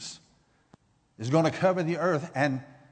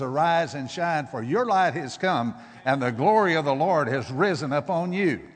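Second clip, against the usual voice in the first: louder, ringing proclamation of the verse; proclaiming scripture; 4 dB louder than usual. Shown as a demonstration. Preacher declaring the promise to the congregation, louder and ringing.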